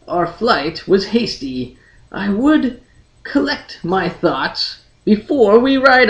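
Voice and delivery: measured storyteller reading fantasy prose; audiobook narration. A narrator's reading. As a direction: read it like an unhurried audiobook narrator. Reads Elric chapter aloud.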